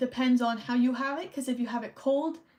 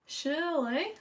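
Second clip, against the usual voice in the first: drawn-out questioning accented Shirley, higher; accidental accent; 5 semitones higher than usual. Real, not acted. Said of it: "I did the accent thing again".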